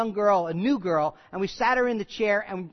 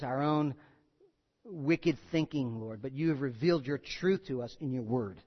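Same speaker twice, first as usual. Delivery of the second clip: prayer; 4 semitones lower, 5 dB quieter than usual. Real, not acted. Pastor leading the church in closing prayer, reverent. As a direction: pray humbly for the congregation.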